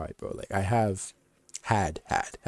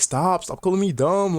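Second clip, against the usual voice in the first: high, loud mock protest; whiny-girlfriend imitation, pitched up and louder; upset girlfriend; 9 semitones higher, 7 dB louder than usual. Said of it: "she'll get upset".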